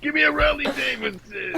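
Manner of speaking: high, stretched cartoon Brooklyn accent; put-on Brooklyn accent. Comic ordering something, high Brooklyn accent. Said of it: "just making noises in the accent".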